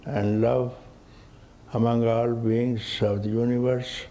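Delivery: soft, measured prayer; peace invocation. Real, not acted. Teacher opening satsang with a blessing for all beings, soft invocation. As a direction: intone a gentle blessing, softly.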